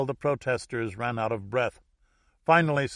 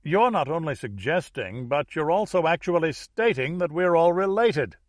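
higher-pitched protest, building; incredulous cry; 6 semitones higher, 4 dB louder than usual. A narrator's reading. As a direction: cry out as the Boston attorney. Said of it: "cried the attorney from Boston".

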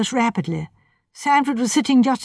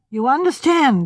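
warning; 5 semitones higher than usual. Acted. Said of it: "he said warningly".

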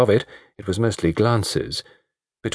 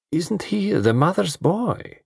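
slow mocking, higher; 10 semitones higher, slower than usual. A narrator's reading.

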